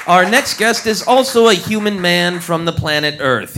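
ordinary delivery

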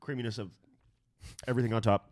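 strained mouthful tasting voice; mouth full, choking. Pretend. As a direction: choke out the words through food. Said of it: "The way you do it is like you're choking".

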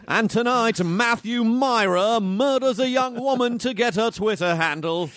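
British news anchor voice; English newscaster. Pretend. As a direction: read it like the evening news. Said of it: "like a newscaster in England".

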